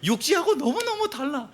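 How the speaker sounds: high-pitched marveling; amazed tourist. Acted. Tourist on village road, high marveling at difference. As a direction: gush with wonder. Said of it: "하면서".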